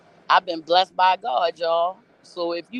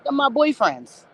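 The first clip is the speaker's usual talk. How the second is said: higher, slow, offhand mock voice; imitating Riri, casual; 7 semitones higher, slower than usual. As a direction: say it like it's nothing, as Riri. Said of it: "She like".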